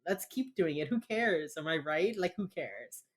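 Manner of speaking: sarcastic mock indifference. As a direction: pretend not to care, plainly meaning the opposite. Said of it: "That's sarcasm".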